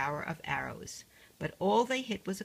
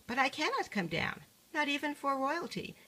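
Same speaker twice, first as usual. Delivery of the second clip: raised pitch, protesting from the sky; pleading; 7 semitones higher than usual. Acted. Duchess calls down to the queen, raised and pleading. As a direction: she insists from far above.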